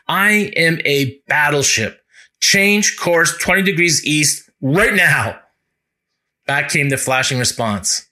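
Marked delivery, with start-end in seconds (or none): 0.1-5.4 mock shout. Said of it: "He shouted to the signalman".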